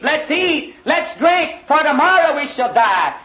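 mocking carefree revelers. Preacher mocking people who won't weep, mild carefree mimicry. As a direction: mimic the careless crowd living it up. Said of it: "everybody's saying".

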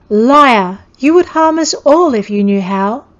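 put-on a frightened child lashing out at the warrior; child's angry cry. A narrator's reading. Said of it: "Eatha's voice was losing its serenity".

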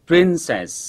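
"princess" with the final s held for a long hiss; three-second final s. Shown as a demonstration. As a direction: stretch the last s of "princess" right out. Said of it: "Nhớ là kéo dài âm cuối trong vòng ba giây".

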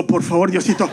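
mock pleading prayer. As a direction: plead with God not to be deported. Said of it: "All they do is go like this and go".

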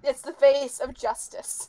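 slow, grand hero proclamation; mock heroic declaration. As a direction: declare it like a superhero.

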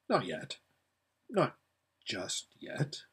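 fading to a sleepy breath; drowsy, trailing almost to a whisper; drifting off to sleep. A narrator's reading. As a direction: let the words sink into sleep.

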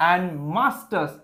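slow down on mustache; careful pronunciation. Shown as a demonstration. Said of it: "উচ্চারণটা খুব ভালো মতো দেখে রাখো". (mustache ধীরে, স্পষ্ট করে উচ্চারণ)

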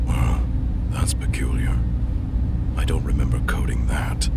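hushed whispered inner monologue. Acted. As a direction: breathe it out like a secret thought. Whispered private thoughts while investigating.

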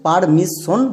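পারমিশন with a doubled s, par-mis-shon; mistaken double s. Shown as a demonstration. Teacher warns pupils off a mistake, পারমিশন said as par-mis-shon. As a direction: hold the s in পারমিশন before "shon". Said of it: "পারমিশন বলবো না".

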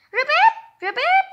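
high, loud froggy ribbit; frog croak. Acted. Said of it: "he said".

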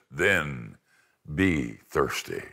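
calm lion throws it back slowly; lion's reply. Acted. Lion answers girl.

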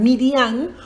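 "Midian" in three syllables with an ng-like ending; shown pronunciation. Shown as a demonstration. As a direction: say "Midian" as mee-dee-AHNG. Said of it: "listen to the pronunciation".

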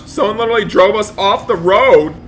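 high, loud indignant exclamation; shocked outburst. Pretend. Dad tells son they were driven off road, shocked outburst. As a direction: exclaim in play disbelief. Complains after second crash.

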